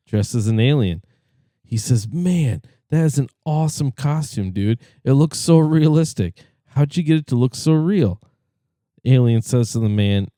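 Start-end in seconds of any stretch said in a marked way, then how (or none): 2.1-8.2 excited. Acted. Man amazed by alien costume.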